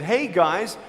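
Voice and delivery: mock bragging. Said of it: "I would sound so stupid if I said".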